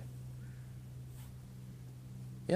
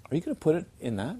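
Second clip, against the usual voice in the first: politely doubtful friend; 4 semitones higher, faster than usual. Retold or imitated. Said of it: "she was trying to be very polite".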